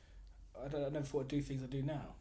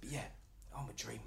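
softer, lightly imitated Cockney; Cockney old fan; 7 dB quieter than usual. Retelling the old Millwall fan's line, soft Cockney imitation. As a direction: quietly echo an old-school Cockney. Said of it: "with a good Cockney who did Cockney right".

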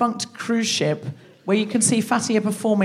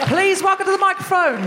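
booming announcer; 10 semitones higher than usual. Real, not acted. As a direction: boom it out like a compere. Host introducing the next comic.

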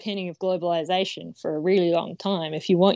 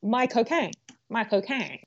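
Michael Caine warm-up; 5 dB quieter than usual. Shown as a demonstration. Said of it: "to get in his accent, you know what you have to do".

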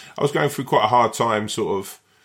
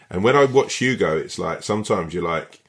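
ordinary talk

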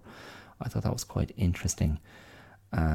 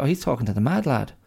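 gossiping pig; 7 semitones higher, much faster than usual. Retold or imitated. Pig dialogue continues.

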